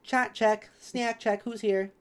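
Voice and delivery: loud, upbeat roll call. Real, not acted. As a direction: call out to chat cheerfully. Calling roll of chat.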